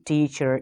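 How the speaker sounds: teacher with the final R pronounced; American-style R ending on teacher; rhotic teacher. Shown as a demonstration. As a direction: finish teacher on a clear R. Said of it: "in a stylish way like the Americans do".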